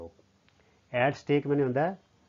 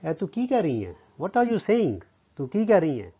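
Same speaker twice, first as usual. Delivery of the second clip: puzzled question; 4 semitones higher, 4 dB louder than usual. Acted. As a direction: query it, voice swooping up then falling. Acting Pala's puzzled question.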